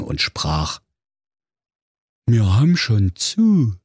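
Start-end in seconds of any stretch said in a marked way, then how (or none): 2.3-3.8 a touch of a louder, dull zombie voice; zombie clerk. A narrator's reading. Grey zombie clerk telling Thorsten they're closed, dull. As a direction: mumble it like a tired undead clerk.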